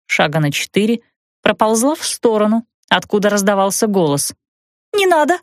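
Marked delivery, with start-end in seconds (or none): 4.9-5.4 much higher, shrieked in panic; frightened squeal. Acted. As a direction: squeal in fear to keep her away. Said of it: "испуганно взвизгнула".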